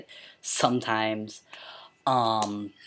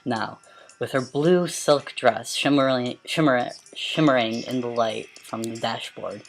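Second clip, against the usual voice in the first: dramatic storybook reading; story narration. A narrator's reading. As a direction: read it like a novel aloud. Reads a story aloud.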